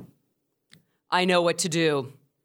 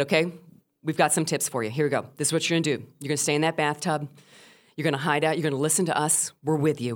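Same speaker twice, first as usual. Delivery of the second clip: lower, steady retold reassurance; reassuring host; 4 semitones lower, faster than usual. Radio host to caller hiding in bathtub, reassuring. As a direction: talk the caller down, low and even.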